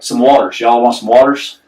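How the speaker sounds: mock Southern accent on "waters"; lightly exaggerated Southern server; imitated Southern waitress. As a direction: repeat it as a Southern waitress not being understood. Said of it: "I didn't understand what she was saying".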